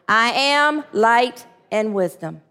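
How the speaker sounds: slow, deliberate "I am light and wisdom"; a slow, firm affirmation with the congregation. Shown as a demonstration. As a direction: declare it slowly together. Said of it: "let's say that one more time".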